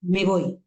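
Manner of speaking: "me voy" run together with no cut between the words; said without a break. Shown as a demonstration. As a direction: glue "me" onto "voy". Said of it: "sin cortar". ("me voy" de un solo golpe, sin cortar)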